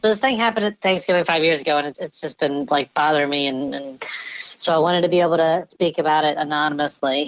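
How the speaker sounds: electronically disguised voice; voice changer. Real, not acted. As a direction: speak through a voice changer. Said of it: "even with the voice changer".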